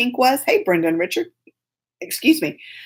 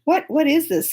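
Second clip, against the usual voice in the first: much higher, slow baffled question; puzzled daughter; 6 semitones higher, slower than usual. Retold or imitated. Daughter lifting the icing at the table, slow and baffled. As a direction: drag it out high in disbelief. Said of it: "and she said".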